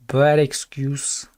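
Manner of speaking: slow, flat put-on dismissal in an odd voice; mock dismissive voice. Streamer repeats the excuse in a mock dismissive voice. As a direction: drop into a mock voice and dismiss it slowly.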